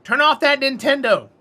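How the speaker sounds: high, loud nagging yell; mother yelling. Retold or imitated. Mother yelling at her kid to turn the console off, high and loud. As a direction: yell it like a fed-up mom.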